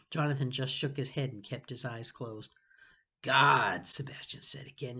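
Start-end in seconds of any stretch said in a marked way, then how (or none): 3.2-3.9 disgusted. Acted. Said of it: "dripping with disgust".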